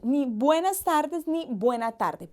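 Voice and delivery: buenas tardes, buena tarde contrasted; "buenas tardes" then "buena tarde", each word stressed; both forms fine. Shown as a demonstration. Teacher contrasting plural and singular greetings, stressing each form. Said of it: "no es un error decir".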